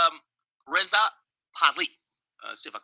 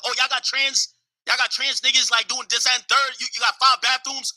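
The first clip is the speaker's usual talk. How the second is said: higher mock outrage at American ways; mocking shocked outsider; 5 semitones higher than usual. Iranians scoffing at American culture, higher mock outrage. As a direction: voice the appalled traditionalist.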